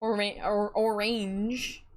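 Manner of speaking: ORANGE said as "or-AYNJ"; long A in the second syllable of ORANGE; mock-proper ORANGE, rhyming with "range"; joke pronunciation. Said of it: "if you will".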